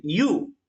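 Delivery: यू stretched slowly as a long yoo; यू said long and slow, as in university; drawn-out yoo sound. Shown as a demonstration. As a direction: hold the यू sound slowly like a demo. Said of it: "इसका क्या हो रहा है?".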